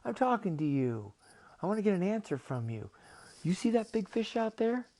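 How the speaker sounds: high, loud, pushy creature voice; cartoon octopus losing patience; exasperated octopus. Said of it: "And the octopus, he says".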